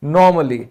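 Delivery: normally with no a sound, nor-muh-lee; correct normally. Shown as a demonstration. Teacher gives the right form normally. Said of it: "उसको English में हम कहते हैं normally".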